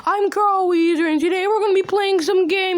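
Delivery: put-on cartoon character voice; Carl Weezer. Carl introducing the games he'll play, in character voice.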